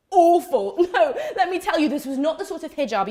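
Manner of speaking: loud, high burst settling into laughing talk; amused laughing. Real, not acted. Daughter telling audience about an awful hijab, laughing. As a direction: laugh through the comic confession.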